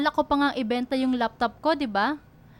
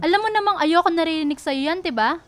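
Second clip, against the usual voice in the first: rising to louder, higher, hurt anger; upset confrontation; 3 semitones higher, 3 dB louder than usual. Acted. Girlfriend scolding boyfriend for paying the hospital bills, angry and raised. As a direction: push back at him, stung and indignant.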